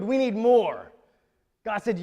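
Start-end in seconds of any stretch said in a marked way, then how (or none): 0.0-0.9 louder, firm "We need more"; forceful declaration in God's words; emphatic demand. Acted. God's demand, first take.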